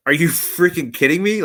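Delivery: high-pitched, incredulous retort; retold disbelief. Customer answers motor builder's shipping request, retold high-pitched disbelief. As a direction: re-enact being floored by the offer.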